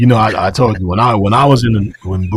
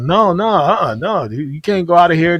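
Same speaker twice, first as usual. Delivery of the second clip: high, raised no no no; mock stern refusal; 9 semitones higher, 4 dB louder than usual. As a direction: block the door and refuse him. Instructors blocking the exit.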